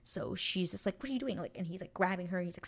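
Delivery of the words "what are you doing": high-pitched baffled question; acted bafflement. Acting out her confusion as he grabs her, high baffled question. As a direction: imitate her, pitched up and puzzled.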